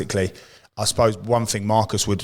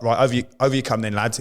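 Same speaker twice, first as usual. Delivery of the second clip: put-on broad Scottish accent; 3 semitones higher, faster than usual. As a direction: imitate a brisk Scottish sergeant major. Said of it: "in his broad Scottish accent".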